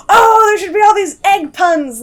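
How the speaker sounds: high, loud, gushing burst of excitement; retelling a friend's giddy pun idea, shouted high; excited friend. Retold or imitated. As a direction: imitate a friend bubbling over with an idea. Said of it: "she was like".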